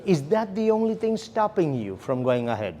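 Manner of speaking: ONLY as the most prominent word, then falling away; stress on ONLY. Shown as a demonstration. Trainer modelling a qualifier question to the client, stress on ONLY. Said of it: "the emphasis is on the word only".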